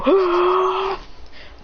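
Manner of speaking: long, high airy roar; clash noise. Acted. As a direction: imitate the blast of two attacks meeting.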